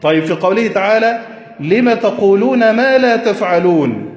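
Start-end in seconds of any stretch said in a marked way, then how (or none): 1.6-4.1 slow verse recitation. Shown as a demonstration. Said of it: "أين ما الاستفهامية؟".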